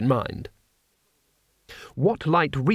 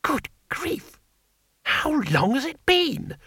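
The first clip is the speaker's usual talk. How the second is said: high, muffled and slow; 13 semitones higher, much slower than usual. A narrator's reading. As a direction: call out through a thick wall. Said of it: "said the muffled voice of Two Flower".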